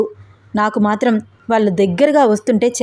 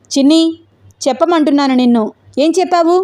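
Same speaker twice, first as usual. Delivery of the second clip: angry demand; 5 semitones higher than usual. Acted. Venkat angrily demanding an answer.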